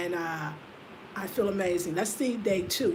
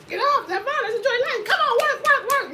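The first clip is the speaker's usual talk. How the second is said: mock pep talk; 13 semitones higher, 5 dB louder than usual. Urging herself to get moving.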